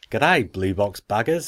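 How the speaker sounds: hammed-up Aussie email greeting; Australian accent. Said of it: "try his Australian accent again".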